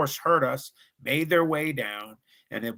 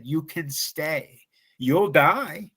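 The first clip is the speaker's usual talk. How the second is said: higher, forceful threat; stern retold warning; 4 semitones higher, 3 dB louder than usual. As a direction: lean in hard on the scared friend. Threatening his panicking buddy.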